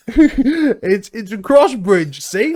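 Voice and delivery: loud, high hammed-up Australian accent; mock Australian accent. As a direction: play a rowdy Aussie bloke, loud and high. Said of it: "we are in Australia".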